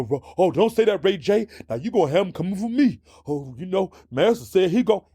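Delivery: mocking South Carolina twang; exaggerated old Southern plantation accent, quick in places; Shannon Sharpe. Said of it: "That's the way that Shannon Sharp's talks".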